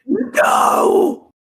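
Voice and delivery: loud high-pitched protest; shouted no. Real, not acted. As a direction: shout it in horror. Reacts to hated movie pick.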